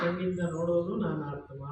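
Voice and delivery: measured call for group recitation; lead-in for repetition. Shown as a demonstration. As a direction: model a line for the class to repeat. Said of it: "ಹೇಳಿ ಎಲ್ಲರೂ". (ಮಕ್ಕಳಿಗೆ ಹೇಳಿಕೊಡುವ ಧ್ವನಿ)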